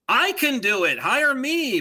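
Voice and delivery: hammed-up gruff dog impression; old McGruff voice. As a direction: play the tough crime dog. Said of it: "he talked like this".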